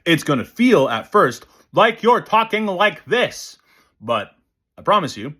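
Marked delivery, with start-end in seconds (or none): 1.7-3.6 higher-pitched talk with jaw dropped; dropped-jaw speech. Shown as a demonstration. Teacher showing how it feels at first, exaggerated dropped-jaw speech. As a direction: say "this" with the jaw hanging open. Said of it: "dropping your jaw vertically".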